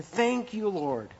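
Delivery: joyful thanks to the Lord. Pretend. Believer joyfully thanking the Lord for removing things, rejoicing.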